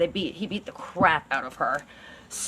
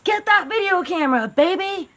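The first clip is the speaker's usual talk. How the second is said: higher, eager mock voice of Paul; creepy boyfriend; 7 semitones higher than usual. Paul calling Carla to fetch the camera, eager mocking imitation. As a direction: toss it off like a gleeful order. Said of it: "called Carla into the room and said".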